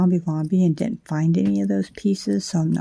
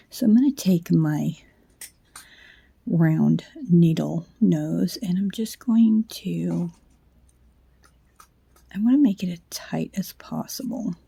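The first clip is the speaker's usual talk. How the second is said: whisper. Real, not acted. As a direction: murmur to yourself, careful not to wake anyone. Late night, whispering while working wire.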